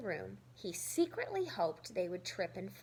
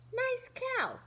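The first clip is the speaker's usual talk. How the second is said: mock compliment; 13 semitones higher, 3 dB louder than usual.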